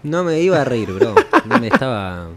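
stifling a laugh while denying it; holding back giggles; trying not to laugh. Real, not acted. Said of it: "no te rías, no te rías".

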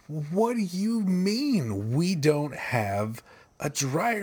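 slow, drawn-out incredulous question; stunned disbelief. Retold or imitated. Husband retelling his stunned reply to his wife, slow disbelief. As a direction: stretch it out in disbelief.

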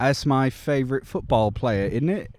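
playful copy of a British lad; put-on British with a tag question; British accent. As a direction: imitate a British football fan. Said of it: "was a British person talking about American football".

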